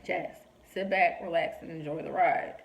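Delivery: lightly voiced patient parent, taking time; calm reassurance. God calmly answers her anxious questions.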